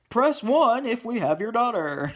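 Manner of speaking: mock an automated phone recording; hammed-up phone menu prompt. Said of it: "or the voice, not movie phone".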